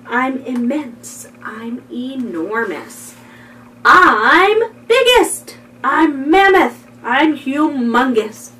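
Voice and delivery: expressive picture-book reading; storybook read-aloud; reading to children. Acted. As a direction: make each word sound like its meaning.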